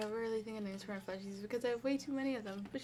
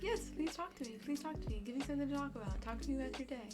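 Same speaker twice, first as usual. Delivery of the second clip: eager pleading; 2 semitones higher than usual. Retold or imitated. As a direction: beg viewers to keep talking. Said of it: "I'm kinda just like".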